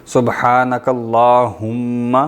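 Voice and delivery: سبحانک اللہم very slow, with the heavy ha from the throat; correct pronunciation. Shown as a demonstration. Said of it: "ہا موٹی والی". (بہت آہستہ، حلق والی حا کے ساتھ)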